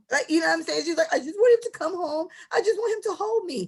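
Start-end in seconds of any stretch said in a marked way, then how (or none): 1.1-3.7 high, whiny, tearful crying with pleading tone. Mocking a woman she describes crying over a guy: mocking whiny crying. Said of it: "So she was just in there crying".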